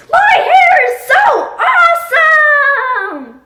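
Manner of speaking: very high, very loud proud yell; slow, drawn-out joyful shout; triumphant shout. Acted. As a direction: blurt it out to the world. Toddler's big first sentence.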